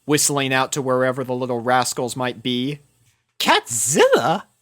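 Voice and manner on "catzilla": puzzled question. A narrator's reading. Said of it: "asked Rarity".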